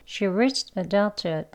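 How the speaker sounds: each word drawn out and spaced; slow. Shown as a demonstration. Teacher modelling the sentence slowly for learners. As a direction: read it out very slowly. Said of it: "천천히 느린 속도로 해볼게요".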